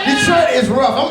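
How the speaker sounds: slow shout. Shown as a demonstration. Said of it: "repeated shouted slow".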